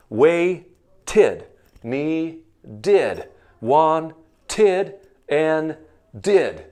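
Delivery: Waited, Needed, Wanted end on a clear id. Shown as a demonstration. Teacher modelling id endings. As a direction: draw out the id ending.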